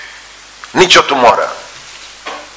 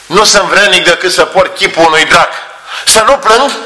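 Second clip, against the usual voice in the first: put-on higher, grieving voice of a broken drunkard; lamenting drunkard; 7 semitones higher than usual. Drunkard confessing to the painter, higher and grieving. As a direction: mourn your own ruined soul.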